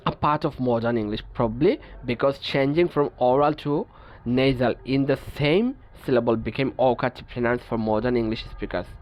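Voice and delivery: each English word read out slowly and evenly; measured, deliberate reading of a textbook rule. Acted. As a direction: dictate the rule slowly to the class.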